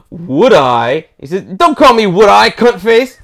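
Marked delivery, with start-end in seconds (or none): 0.1-1.1 mock delighted exclamation after a gasp; thrilled acceptance. Girl delighted to be asked to dance, mock thrilled. 1.4-3.2 mildly hammed-up indignation; offended retort. Wooden-eyed man who thinks he was mocked, offended.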